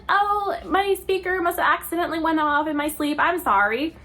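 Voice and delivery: a light imitation of an innocent teen; mock innocent. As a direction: play it off all sweet and innocent. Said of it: "she's like".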